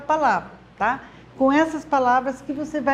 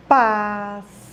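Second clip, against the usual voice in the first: syllable-by-syllable reading; 4 semitones lower than usual. Shown as a demonstration. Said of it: "Lendo sílaba por sílaba".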